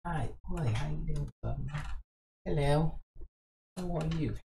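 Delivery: hushed mock British accent; very soft British greeting. Shown as a demonstration. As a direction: say it gently in a put-on British accent. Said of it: "You do it soft, right?".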